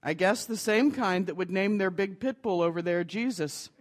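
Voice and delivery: delivered through a laugh; laughing punchline. Acted. Preacher tells the joke's punchline, chuckling.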